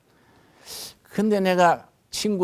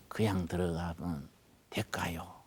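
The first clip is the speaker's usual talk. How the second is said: whispered prayer; 6 semitones lower, 9 dB quieter than usual. Retold or imitated. Whispered question in his prayer.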